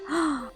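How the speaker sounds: quick, soft gasp of surprise; shocked gasp. Real, not acted. Player realizing the egg has hatched, shocked gasp. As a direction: suck in air, startled.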